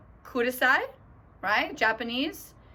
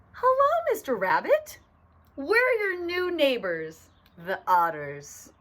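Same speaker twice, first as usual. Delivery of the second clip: friendly otter greeting; 6 semitones higher, 4 dB louder than usual. Acted. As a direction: greet the new neighbor in a big cartoon voice. Otters greet rabbit as new neighbors.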